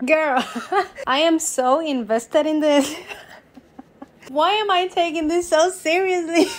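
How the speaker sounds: high, loud, breaking into laughter; real laughing. Real, not acted. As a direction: laugh through the words, amused at yourself. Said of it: "I don't know why I'm laughing".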